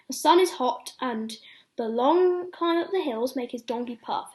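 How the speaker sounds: lively read-aloud for little ones; bedtime story reading. Acted. Ben reading a bedtime story to children, lively storytelling. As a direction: tell it like a picture book at bedtime.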